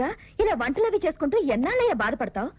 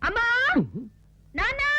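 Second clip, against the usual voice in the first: high call to her parents; shouting for her mother and father; 8 semitones higher than usual. Acted. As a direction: call out to bring them running. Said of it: "గట్టిగా రవకే".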